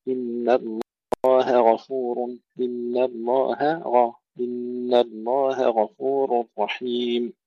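slow الله غفور, light ه cleanly apart from a heavy غ; separated ha and ghayn. Shown as a demonstration. Teacher drills students on separating ه and غ. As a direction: pause the ه before the غ. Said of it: "نفصل الهاء عن الغين".

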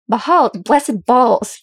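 choked, scandalised dwarf oath; choked outburst. A narrator's reading. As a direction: splutter it out in mock-epic shock. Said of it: "Gimli choked".

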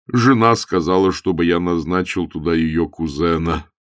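lightly voiced apologetic cleric; pained bishop. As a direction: break bad news reluctantly. Bishop breaks bad news.

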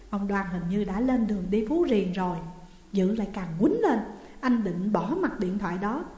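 ordinary delivery, nothing marked

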